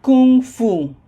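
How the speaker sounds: "Kung fu" as two loud, separate words. Shown as a demonstration. Teacher explains hyphenated word, "Kung fu" said as two words. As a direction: split "Kung fu", each word high and full. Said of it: "said like two separate words".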